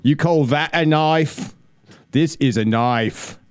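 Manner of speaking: slow, hammed-up Australian movie-hero accent; lightly done Australian, drawn out; mock Australian accent. Host shows off an Australian film line, mock Australian accent. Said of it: "Okay, let's do Australian".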